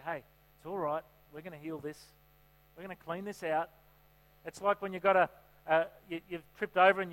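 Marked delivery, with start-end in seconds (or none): 0.1-3.7 softer, gentle comforting voice; gentle Holy Spirit. Retold or imitated. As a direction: soothe them like a kind friend. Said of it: "the Holy Spirit will gently come and say".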